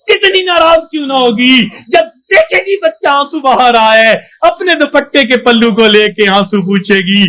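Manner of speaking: preacher near tears over a mother's love; fervent preaching. Acted. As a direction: plead it with feeling. Emotional preaching.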